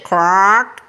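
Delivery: drawn-out toad croak; toad's croak. A narrator's reading. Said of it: "Toad said".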